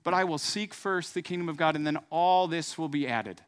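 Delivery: confident spoken pledge of faith; declaring the verse. Shown as a demonstration. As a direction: proclaim it like a personal vow. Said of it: "You go".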